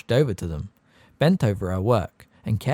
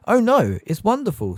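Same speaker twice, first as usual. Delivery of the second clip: high, sincere gush; mean every word; earnest; 10 semitones higher, 6 dB louder than usual. A narrator's reading. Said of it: "said Hermione earnestly".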